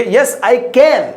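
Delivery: very slow, drawn-out model answer; slow classroom demo. Shown as a demonstration. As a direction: stretch it out for students to copy. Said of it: "અંગ્રેજીમાં એ રીતે જવાબ આપશો કે".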